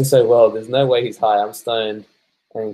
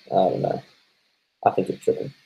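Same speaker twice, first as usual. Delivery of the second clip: whispering; 5 dB quieter than usual. Real, not acted. Unvoiced soft reply.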